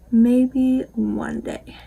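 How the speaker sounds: hushed dreamy whisper of a wish; slow whisper. Pretend. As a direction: whisper "Maybe one day" slowly and breathily, no voice. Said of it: "repeats in whisper".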